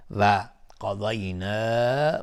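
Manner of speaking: قضینا with a long-held final aa; permissible madd. Shown as a demonstration. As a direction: stretch the last vowel of قضینا. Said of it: "مد جایز منفصل".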